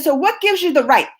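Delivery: mother reliving her anger at the teacher; retold angry telling-off. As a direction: replay the fury at the meeting. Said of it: "and then I got mad".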